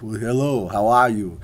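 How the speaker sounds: lightly voiced Austrian action-star impression; a hint of a celebrity accent; understated action-hero greeting; Arnold Schwarzenegger. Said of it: "do the Arnold voice".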